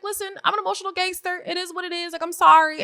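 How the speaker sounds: high-pitched, fast, mock-teary pleading; imitating a friend fighting tears; imitating a tearful islander, high and quick; emotional, half-laughing defence. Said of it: "she's even getting emotional while saying it".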